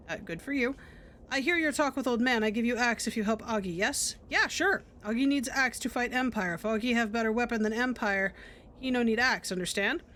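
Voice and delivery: a hint of a simple warrior voice; lightly voiced brute. Augie bargains over the axe with the player, lightly voiced. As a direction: play Augie lightly, halting.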